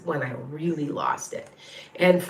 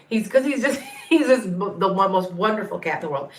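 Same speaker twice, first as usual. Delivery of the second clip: laughing fondly. Real, not acted. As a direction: laugh while praising the cat. Laughs about her cat.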